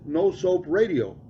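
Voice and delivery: slow, drawn out deadpan; the punchline, again slow. Retold or imitated. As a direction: stretch 'No soap radio' slowly. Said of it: "nice and slow".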